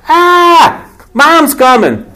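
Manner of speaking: a kid caught, hammed-up alarm; mock panic. Caught kids hearing mom arrive, hammed-up panic. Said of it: "the reaction on their part was".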